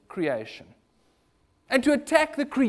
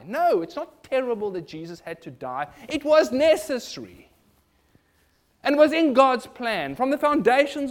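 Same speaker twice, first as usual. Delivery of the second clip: emphatic rebuttal, building louder and higher; firm correction; 4 semitones higher, 5 dB louder than usual. Real, not acted. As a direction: contradict firmly, rising to a forceful finish. Firmly corrects the voiced view.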